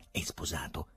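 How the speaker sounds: soft, hushed question; subdued voice. A narrator's reading. Nurse questioning Ryuhin aside, subdued. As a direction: ask it quietly. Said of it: "chiedeva con voce sommessa".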